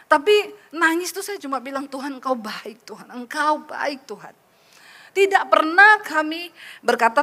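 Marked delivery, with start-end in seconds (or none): 1.8-4.3 retold tearful prayer. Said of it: "air mata saya terus menangis".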